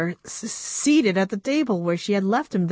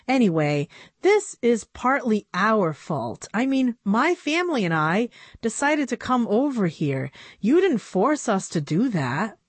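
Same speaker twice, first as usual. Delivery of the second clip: put-on slightly higher girlish voice; a hint of a young girl pleading; lightly voiced young girl; 4 semitones higher than usual. Narrator voices Annabelle.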